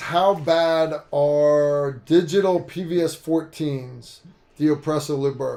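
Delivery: normal talking voice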